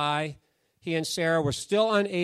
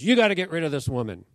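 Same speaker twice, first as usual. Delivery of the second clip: quick, forceful and louder; demanding wife; 5 dB louder, faster than usual. Retold or imitated. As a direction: push it out like Sarah insisting. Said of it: "And she goes".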